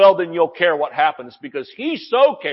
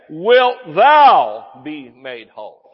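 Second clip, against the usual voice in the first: slow, measured scripture quote; slow, weighty quoting of Jesus; slow King James reading; 3 semitones lower, 4 dB louder, much slower than usual. Shown as a demonstration. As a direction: read each word out slowly. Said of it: "What did he say?".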